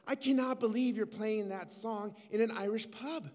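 imitating someone's delighted disbelief; excited stranger. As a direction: act out an astonished fan gushing. Excited stranger approaches the musician.

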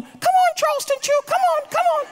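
very high, loud dog-calling coo; high-pitched pet voice. Retold or imitated. Pastor copying his wife calling the dog in, very high and loud. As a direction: mimic the wife's squeaky call. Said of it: "I start calling him".

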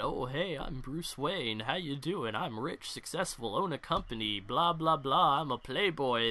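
soft, easygoing rich-playboy patter; lightly voiced, offhand playboy chatter; breezy Bruce Wayne. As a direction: toss it off like a casual socialite introducing himself. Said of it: "'Cause he can pull off that, ... slip the voice into one of the two roles".

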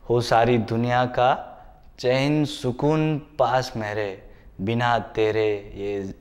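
measured couplets with pauses between phrases; poetry recital. Acted. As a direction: recite the sher, easing down at each line's end. Recites a sher.

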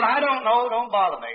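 mildly exasperated mother. Retold or imitated. Mother answers her boy's repeated question, mildly exasperated. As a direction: push the child away with mild impatience. Mother's second, more irritated brush-off.

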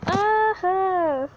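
high, drawn-out cry; falling yell. Real, not acted. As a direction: yelp as you drop. Falls into the ooze.

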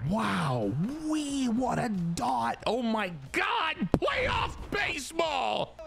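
high shout, words drawn out slow; excited whoop. Real, not acted. Streamer hyped over his pitch, slow high shouted whoop. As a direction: stretch it out in a big whoop.

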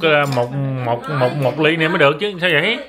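loud demand. Real, not acted. Demanding another drink.

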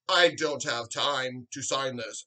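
mimicking his rival's excuse, slowly; mocking slow quote. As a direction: drag it out like a lame excuse. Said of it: "three videos saying".

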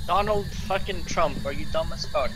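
high slow mocking taunt; mock the ghost slowly.

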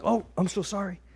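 mock apology. Golfer apologizing to a Christian, mock sheepish. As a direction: imitate someone apologizing meekly.

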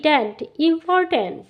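"important" drawn out syllable by syllable, very slow; teacher stretching "tent, important" for students; slow syllable demo. Shown as a demonstration. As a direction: build "important" slowly from "tent". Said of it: "T এ N T".

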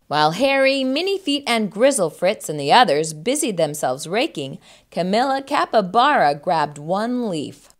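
animated storybook reading; expressive picture-book narrator; children's story narration. A narrator's reading. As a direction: read clearly to young children.

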